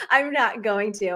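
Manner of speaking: laughing. Real, not acted. Repeats it, still laughing.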